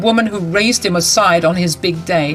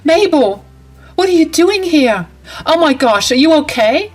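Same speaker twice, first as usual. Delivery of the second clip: alarmed concern; 6 semitones higher than usual. Acted. Bride finding her mother-in-law locked in, high and alarmed. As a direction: rush in, alarmed to find her.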